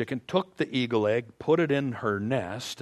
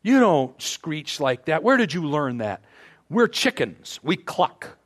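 scolding mother hen; slower than usual. Retold or imitated. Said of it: "the mother chicken said".

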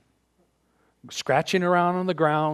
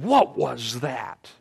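scolding mother hen; slower than usual. Retold or imitated. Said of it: "the mother chicken said".

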